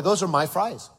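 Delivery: put-on half-hearted little boy voice; mock child. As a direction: say it like a kid, lightly. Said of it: "About an eight-year-old boy".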